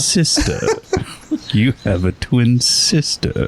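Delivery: high, slow melodramatic gasp; mock soap opera reveal. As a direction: ham up a shocking family reveal. Mock dramatic sibling reveal.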